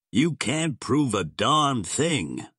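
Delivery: a restrained shout of defiance; shouted denial. A narrator's reading. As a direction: hit each word in heated denial. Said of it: "shouted Gar".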